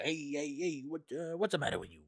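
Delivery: lightly voiced old New York crooner; a hint of a gruff New York singer; a famous crooner. Imitating a famous singer for chat, a light New York voice. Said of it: "his voice is very much like this about New York"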